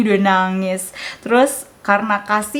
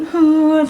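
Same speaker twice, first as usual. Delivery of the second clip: mock toddler cry; 6 semitones higher, 4 dB louder than usual. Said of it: "Terus dia nangis".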